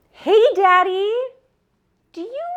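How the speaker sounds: sweet daughter voice. Retold or imitated. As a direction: coax Dad like a little girl. Calling her dad sweetly.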